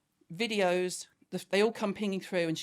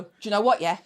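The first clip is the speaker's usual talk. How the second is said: louder confrontational Scouse and West London; angry Scouse-London mix; 6 dB louder, faster than usual. Retold or imitated. Mum stepping up to her daughter, angry Scouse-London mix. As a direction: square up in a mixed Scouse-London accent. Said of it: "it's a mixture of Scouse and West London".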